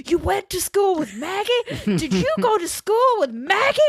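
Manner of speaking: very high, incredulous mock screech; mock screaming. Two aggressive men interrogating a captive, mock screaming. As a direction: repeat it as a shrieked interrogation. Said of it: "both just screaming repeatedly".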